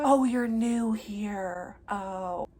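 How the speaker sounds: slow, drawn-out patronizing reply; lightly imitated condescending realization; mock condescension. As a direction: mimic a snooty customer, dragging the words. Mimics customer's condescending reaction.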